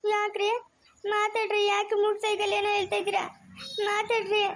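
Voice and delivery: high, weepy questioning; tearful pleading. Acted. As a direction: beg him tearfully to talk. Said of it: "ಅಳ್ಬೇಡ ಅಂತ ಹೇಳ್ತಾ ಇರೋದು". (ಅಳುತ್ತಾ ಗೋಗರೆಯುವ ಧ್ವನಿ)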